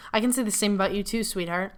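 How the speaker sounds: a quick hint of British accent creeping in at the end; mock Xanthe with a dash of British accent; lightly mocking British accent. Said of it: "She had a dose of Xanthe's British accent near the end".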